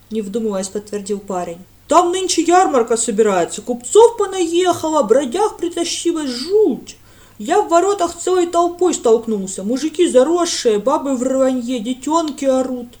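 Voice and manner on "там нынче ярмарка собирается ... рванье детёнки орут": eager village lad. A narrator's reading. Lad gossiping about the fair.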